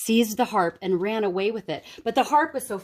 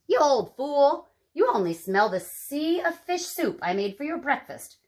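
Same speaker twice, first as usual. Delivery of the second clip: scolding giantess; 6 semitones higher than usual. Acted.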